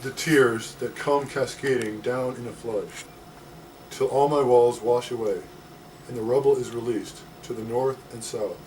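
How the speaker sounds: slow, deliberate verse recital; measured poem delivery with pauses; poetry reading. Acted. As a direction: let each phrase land before the next. Reading own poem aloud.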